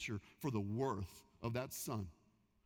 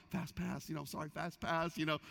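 sheepish apology. Retold or imitated. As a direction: mumble an apology while squeezing past. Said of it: "I'm apologizing as I'm passing".

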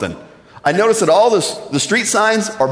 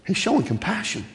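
hushed, higher-pitched answer; 3 semitones higher, 8 dB quieter than usual. Real, not acted. Preacher answering his own question about God, hushed. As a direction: drop the volume to a tender hush.

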